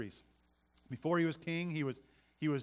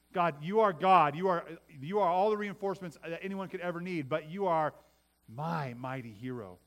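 fervent prayer; 5 dB louder than usual. Acted. Preacher voicing personal prayer.

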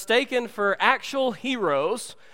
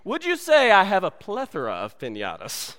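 Jefe voice. Retold or imitated.

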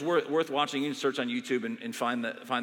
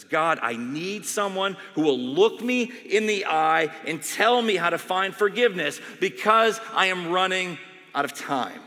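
desperate plea; 3 semitones higher, 5 dB louder than usual. Retold or imitated. Dying doctor begging for forgiveness. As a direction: plead as time runs out.

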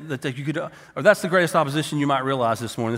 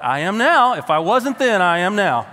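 louder and higher, defiant vow; 3 semitones higher, 6 dB louder, slower than usual. Retold or imitated. Young convert answering his doubting brother, defiant and loud. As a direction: throw it back at him, fired up.

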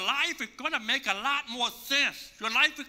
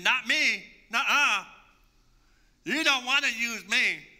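protesting; 4 dB louder than usual. Retold or imitated. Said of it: "Moses protested".

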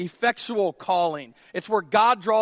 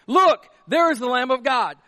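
raised, louder proclamation; excited declaration; 4 semitones higher, 5 dB louder than usual. Acted. John the Baptist identifying Jesus, excited declaration. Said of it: "He's excited about this".

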